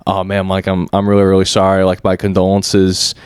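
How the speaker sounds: low, halting sympathy; sympathetic condolences. Retold or imitated. Counter worker to a regular's widow, low and apologetic.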